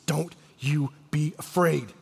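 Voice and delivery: slow, soft, steadying command; slow it right down and reassure softly; calm reassurance. Retold or imitated. Jesus steadying the grieving father.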